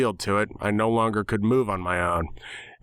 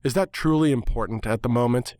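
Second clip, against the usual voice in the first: impatient sarcasm. Acted. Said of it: "with impatience and sarcasm".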